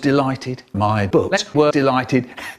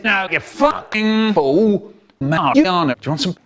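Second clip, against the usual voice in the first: mock furious stranger; angry man voice; 4 semitones higher than usual. Man's angry retort in absurd story.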